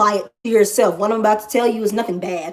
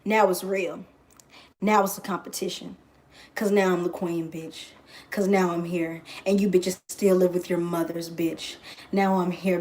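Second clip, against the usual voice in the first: smug queen boast; 4 semitones lower, 6 dB quieter than usual. Acted.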